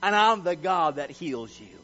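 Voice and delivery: loud, forceful growled declaration. Acted. Preacher acting God proclaiming He heals, loud and growling. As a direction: stretch it out in a powerful growl. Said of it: "with a growl in His voice even".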